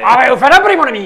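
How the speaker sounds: jovial innkeeper, laughing along. Acted. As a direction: play the chatty innkeeper. GM voices the innkeeper.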